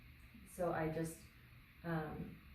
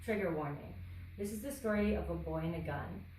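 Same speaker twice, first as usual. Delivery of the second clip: deliberate poetry recital, line by line; measured spoken-word delivery; poem reading. Acted. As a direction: read your poem aloud, pausing after each line.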